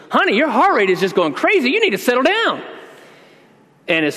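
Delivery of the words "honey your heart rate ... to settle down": higher, sweet nurse's voice, a touch louder; soothing nurse. Retold or imitated. Nurse tells panicking Debbie to settle down, sweetly high. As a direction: coo it like a nurse calming a patient. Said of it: "she goes".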